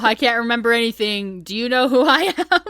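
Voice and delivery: hammed-up clueless amnesiac; mock bewilderment. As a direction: act helplessly lost, rising at the end. Acting out amnesiac Jason.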